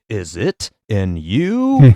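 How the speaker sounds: drawn out, slow retake. Retold or imitated. Retelling Jordan's struggling Gatorade take, very slow. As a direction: drag the tagline out slowly. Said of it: "not able to get it right".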